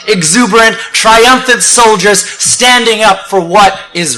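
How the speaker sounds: emphatic, rhythmic list-building oratory; rousing spoken-word. Acted. Speaker praising defiant science to the marchers, rousing oratory. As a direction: drive each phrase toward the climax.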